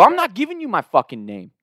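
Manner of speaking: high, heated retold outburst; blowing up at the dean, voice pitched high; going off. Student cussing out the dean, heated outburst. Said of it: "I'm going off".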